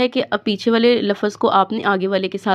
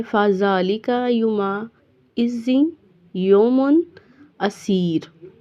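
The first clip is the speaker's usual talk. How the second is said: recitation; slower than usual. Shown as a demonstration. Teacher recites verse.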